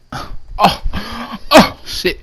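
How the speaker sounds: breathy oh, then a jump up; stunned groan, then a high burst; pained exclamation. Retold or imitated. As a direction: react as if just hit by bad news. Recalls heartbreak on reading the text.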